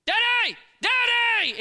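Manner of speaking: high, very loud panicked yell for dad; screaming child. Retold or imitated. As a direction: imitate a small son freaking out at full volume. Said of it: "He starts screaming".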